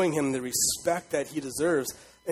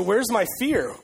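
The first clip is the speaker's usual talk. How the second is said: loud, higher demanding question; 6 semitones higher, 4 dB louder, slower than usual. Acted. Preacher as God demanding the people's fear, loud and higher. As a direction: throw it out as a loud challenge. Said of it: "And he says".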